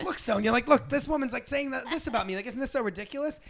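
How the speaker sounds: high-pitched conspiratorial incredulity; mock amused disbelief. Host as Ramona ridiculing someone to Sonia, high amused disbelief. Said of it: "would just be like".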